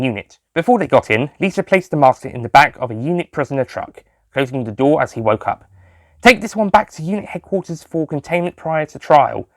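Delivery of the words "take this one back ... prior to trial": firm, higher commanding voice; order. A narrator's reading. Lisa ordering the sergeant to take the Master, firm. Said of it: "she ordered".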